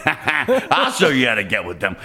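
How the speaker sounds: chuckling through a bold promise; laughing boast. Retold or imitated. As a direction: laugh while you brag. Voicing the lady on the ferry.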